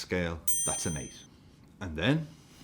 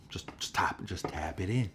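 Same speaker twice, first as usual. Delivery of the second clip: whispered plea; 4 dB quieter than usual. Real, not acted. Pleading whisper at a miss.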